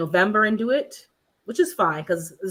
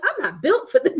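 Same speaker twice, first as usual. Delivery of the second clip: high, laughing through the words; laughing defeat; 9 semitones higher than usual. Retold or imitated. Viewer laughing at herself for failing to hammer. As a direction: laugh as you admit defeat. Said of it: "and I'm like".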